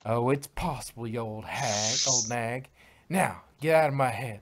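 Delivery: defiant country shout rising at the end; yelling. Acted. Applejack ordering Checker out of her head, defiant yell. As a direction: throw her out of your head. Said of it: "Applejack yelled".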